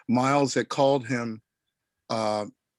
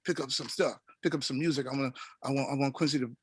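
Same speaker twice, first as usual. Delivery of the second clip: understated musician impression; 6 dB quieter than usual. Retold or imitated. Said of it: "he said".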